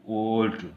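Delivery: ओल्ट loud, with a long held o; teacher sounding out ओल्ट; pronunciation demo. Shown as a demonstration. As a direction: stretch the o in ओल्ट. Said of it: "उच्चारण किया जाता है".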